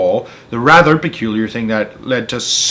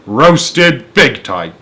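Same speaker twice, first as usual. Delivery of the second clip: amused; 6 dB louder, much slower than usual. Real, not acted. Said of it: "reader's own comment".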